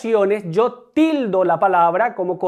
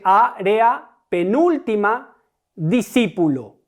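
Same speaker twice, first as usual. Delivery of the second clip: "área, penúltima, discípulo", weighted on "á", "núl", "cí"; antepenultimate stress; slower than usual. Shown as a demonstration. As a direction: say each word apart, leaning third syllable from the end. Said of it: "tónica es la antepenúltima". ("área, penúltima, discípulo", recargando la antepenúltima sílaba)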